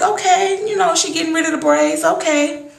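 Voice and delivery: high-pitched tentative okay; doubtful acceptance. Retold or imitated. Viewer watching Tara cut her hair, doubtful. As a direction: go along with it, high and wary.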